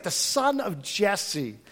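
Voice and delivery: the son of Jesse spat out slowly, refusing the name; contemptuous. Retold or imitated. Saul refusing to name David, slow and scornful. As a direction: drag out the son of Jesse with disgust. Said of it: "he won't even say David".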